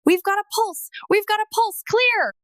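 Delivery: high urgent shouts of the medics; retold medic yelling. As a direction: call out the pulse like an ER team. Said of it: "I heard screaming".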